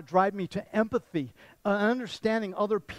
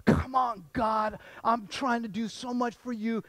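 pleading with God; 5 semitones higher, slower than usual. Retold or imitated. Paul begging God to take his eye trouble away, pleading. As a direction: beg God like you're at the end of your rope. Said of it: "And he's pleading with God".

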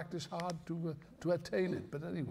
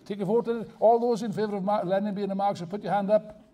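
louder, like a meeting chair calling a vote; mock chairman calling a vote; 3 semitones higher, 5 dB louder than usual. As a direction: play the chairman putting it to the hall. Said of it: "mock vote to audience".

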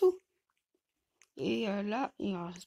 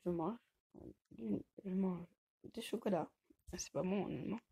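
chewing while talking; 2 semitones lower, 5 dB quieter than usual. Real, not acted. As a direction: mouth full of chocolate. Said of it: "Si vous m'entendez manger".

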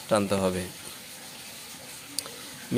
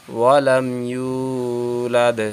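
slow drawn-out reading; much slower than usual. Shown as a demonstration. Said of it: "teacher demonstrates drawn-out reading".

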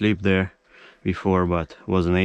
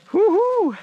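high shriek of joy; shrieking jackpot winner; 5 dB louder than usual. Real, not acted. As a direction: shriek like you hit the jackpot. Another fish, shrieks.

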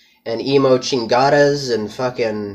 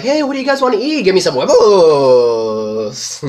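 put-on girlfriend voice; 6 semitones higher, 5 dB louder than usual. Girlfriend asks the guys what to eat, high and girly. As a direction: squeak it like a ditzy girlfriend.

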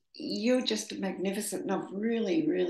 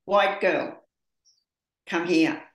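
loud, sharp call across the street; yelled call; 4 dB louder, slower than usual. Retold or imitated. A stranger calls from under the tree, loud yell. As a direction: call her over, loud and sudden. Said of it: "he just yelled out".

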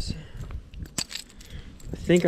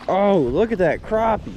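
higher, slow, amazed excitement; excited; 4 semitones higher, slower than usual. Real, not acted. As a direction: marvel at a big catch. Big crappie landed.

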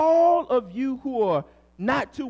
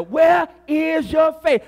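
preaching shout; 3 semitones higher, slower than usual. Acted. Preacher's repeated challenge.

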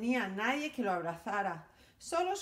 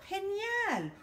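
excited movie director calling out; excited shout; 3 semitones higher than usual. Acted. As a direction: gush about the dog in a hat. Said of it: "y gritó".

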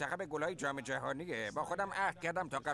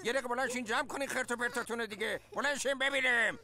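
stern authority; 4 semitones higher, faster than usual. Acted. Father ordering the kids to tidy up, stern and commanding. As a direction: play the strict dad laying down the law. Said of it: "جذبه رو حال کردی خانم".

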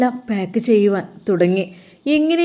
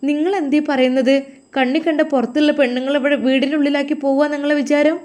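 higher, pitched-up outraged questioning; indignant protest; 5 semitones higher than usual. Acted. Wife confronting her husband over his plan, indignant and raised in pitch. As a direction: demand an answer, hurt and offended.

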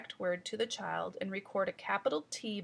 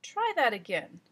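firm teacher prompt, a bit louder; 5 dB louder than usual. Shown as a demonstration. Teacher telling the muddled child to retry, firm. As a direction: nudge the child kindly but clearly. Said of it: "you'll hear me tell myself to try that again".

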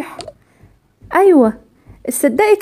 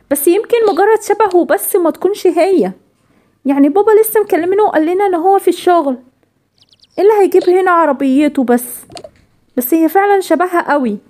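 ordinary delivery

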